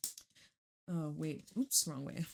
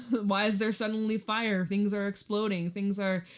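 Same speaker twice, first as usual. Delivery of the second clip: mock panic. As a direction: play the freaked-out crowd, half laughing. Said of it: "everyone's freaking out and be like".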